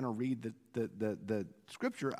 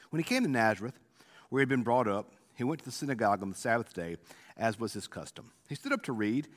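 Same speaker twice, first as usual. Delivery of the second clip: scripture reading; 3 semitones lower than usual. Acted. Reads the scripture passage aloud.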